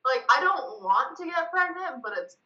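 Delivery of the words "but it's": kind gentle laugh. Real, not acted. Laughs while confessing kink.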